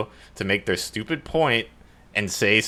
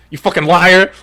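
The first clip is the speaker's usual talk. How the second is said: louder and higher, a hammed-up accusing yell; mock angry yell; 8 semitones higher, 10 dB louder than usual. James yelling at Laura, mock angry shout. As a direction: bark it out like a man calling someone a liar. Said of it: "And he's like".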